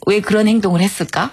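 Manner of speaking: lightly imitated teacherly question; gently probe, as if asking a child; talking to a child. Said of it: "어린애한테 얘기하듯 얘기해요".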